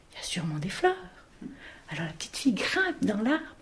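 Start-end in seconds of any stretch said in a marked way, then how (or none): 0.1-1.0 breathy whisper of a secret hope. Acted. Girl hoping for flowers in the tree, whispered. Girl's hopeful thought.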